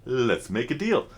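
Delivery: slow, lightly imitated Indian accent; Indian shopkeeper. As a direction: draw it out like an Indian shop owner, lightly done. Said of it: "In his deep Indian voice".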